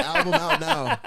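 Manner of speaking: slow, high, big-trailer announcement; dramatic announcer voice. Pretend. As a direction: boom it out like an album ad. Joking album announcement, big voice.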